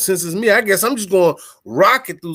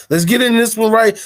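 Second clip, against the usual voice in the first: louder, higher West Coast hype; hyped West Coast accent; 4 semitones higher, 5 dB louder than usual. Shown as a demonstration. Podcast host getting hyped for a topic, West Coast accent. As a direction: get amped and slip into a West Coast accent. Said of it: "I just go into a West Coast accent".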